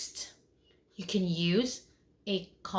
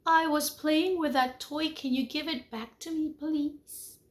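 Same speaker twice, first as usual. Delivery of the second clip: calm and respectful; 5 semitones higher than usual. Shown as a demonstration. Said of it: "calm and respectful voice".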